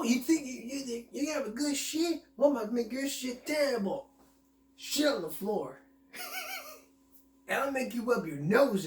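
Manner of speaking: teasing a stranger in a video, hammed up; mock taunting. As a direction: taunt him like a cartoon bully.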